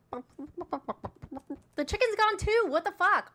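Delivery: slow, high, loud cry of dismay; mock outrage. Host mock-mourning the chicken gift gone from stream. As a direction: wail it like a lost pet.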